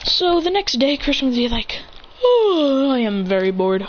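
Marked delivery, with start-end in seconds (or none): 2.2-3.9 bored groan. Acted. Character announces being very bored.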